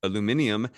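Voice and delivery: aluminium with the extra "i", al-u-MIN-ium; British pronunciation. Retold or imitated. Guest borrows their word for the metal, British pronunciation. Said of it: "as they call it".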